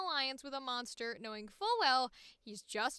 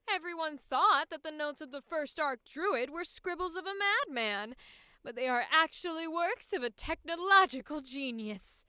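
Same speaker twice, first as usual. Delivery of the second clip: vindictive woman, louder and harder; intense woman voice; 7 dB louder than usual. Acted. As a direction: push the hatred hard. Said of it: "a probably normal voice".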